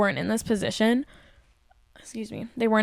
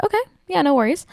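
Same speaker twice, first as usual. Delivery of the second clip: fake sweetness; 7 semitones higher, 4 dB louder, faster than usual. Fake-sweet reply to manager.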